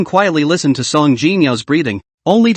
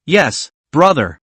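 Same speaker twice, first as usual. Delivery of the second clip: slow, tender little voice; sweetly and slowly say yes; slower than usual. Acted. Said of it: "A tender female voice rang out".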